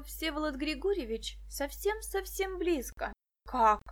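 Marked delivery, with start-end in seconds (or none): 3.5-3.8 a sharp, louder gasp of a question; startled, open-mouthed; surprised. A narrator's reading. Виктоша startled by her friend's hunch, loud. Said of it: "Открыла рот Виктоша".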